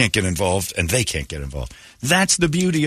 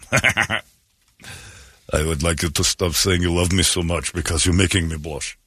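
flustered leader; 6 semitones lower, slower than usual. Acted. Voicing flustered world leader.

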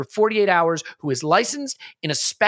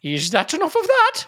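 lingering put-on voice; 11 semitones higher than usual. Still in put-on voice.

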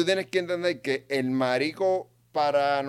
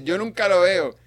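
higher, louder mock quote; mock imitation, pitched up; mimicking a friend; 7 semitones higher, 7 dB louder, slower than usual. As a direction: throw his complaint back, raised and loud. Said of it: "él dice, él dice".

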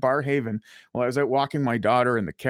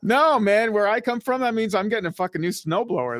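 worked-up rant; 7 semitones higher, 3 dB louder than usual. Real, not acted. Riffing on hometown garage joke.

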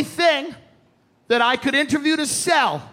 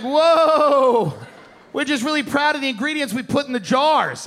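mock hipster. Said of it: "He's like".

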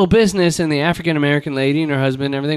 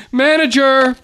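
entitled white guy; 6 semitones higher than usual. Retold or imitated. White shopper calling for the manager, a hammed-up demand. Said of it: "the white guy going".

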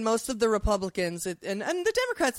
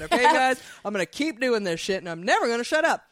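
mocking Jim Jordan. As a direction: bluster and ramble, barely pausing. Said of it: "and it'd be like".

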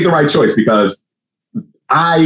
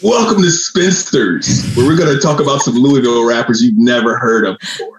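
movie announcer voice. Pretend. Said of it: "That movie announcer voice".

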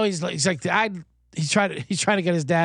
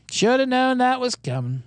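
mock lament; 7 semitones higher than usual. Host repeats his regret over losses, high mock lament.

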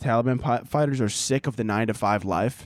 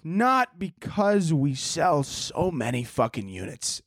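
mock CEO speech; 7 semitones higher, much slower than usual. Mock corporate speech, slow and high.

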